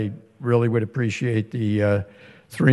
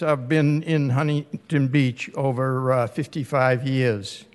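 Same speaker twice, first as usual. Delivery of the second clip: native Boston accent, everyday talk; just talk in your real Boston accent; 5 dB quieter than usual. Real, not acted. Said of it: "despite my, uh, Boston accent".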